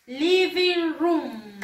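"Living room" very slow, vowels drawn out; repeat-after-me model. Shown as a demonstration. Teacher has pupils repeat after Miss, slow drawn-out model. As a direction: stretch "Living room" for learners, room as "ruum". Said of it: "De nuevo".

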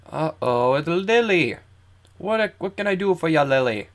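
high, loud mock-dramatic hail; playful greeting. Player hailing Lily in the game, playful. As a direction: greet her with exaggerated swoops in pitch.

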